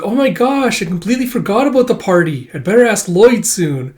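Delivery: put-on high, animated girl voice; excited schoolgirl. Becky voiced remembering party.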